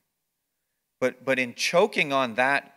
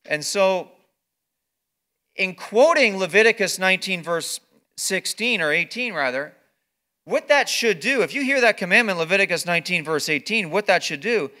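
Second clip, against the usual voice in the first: rising, louder preacher's build; preaching at full force; 6 semitones higher, 8 dB louder than usual. Acted. Pastor urging the congregation on, preaching louder. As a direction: press it home from the pulpit, louder.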